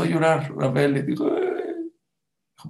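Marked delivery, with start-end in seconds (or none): 1.4-1.9 high, soft pretend wail "eeeh"; mock child crying. Rafael starts to cry to his mother, mock wail. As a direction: whine like a little boy starting to cry.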